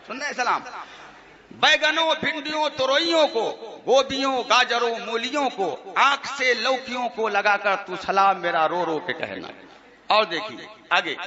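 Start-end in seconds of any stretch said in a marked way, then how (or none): 1.5-9.5 reciting absurd verses to an amused crowd; mock poem recitation. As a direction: rattle off the list in verse, amused. Recites mocked salaam verses.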